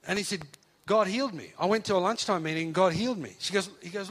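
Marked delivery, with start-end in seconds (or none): 0.8-3.3 higher and louder, joyful God healed me; excited declaration. Retold or imitated. Son tells his atheist mum about the healing, joyful. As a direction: announce the miracle with joy.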